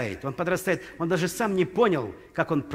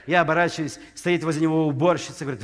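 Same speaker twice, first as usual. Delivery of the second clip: ordinary talk, nothing marked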